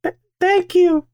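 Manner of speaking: high, stammered falsetto thanks; put-on girl voice. Thanking co-host for the compliment in a girl voice. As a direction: pretend girl accepting a compliment. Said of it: "I'm a girl now".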